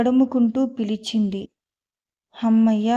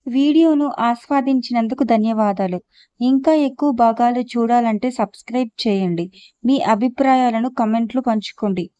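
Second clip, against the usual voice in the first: fast, louder closing announcement; outro read; 3 dB louder, faster than usual. Acted. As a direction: rattle off the sign-off quickly. (వేగంగా, గట్టిగా ముగింపు ప్రకటన)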